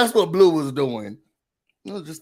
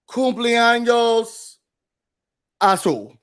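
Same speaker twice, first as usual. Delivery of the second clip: mock Spanish; slower than usual. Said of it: "me trying to speak Spanish".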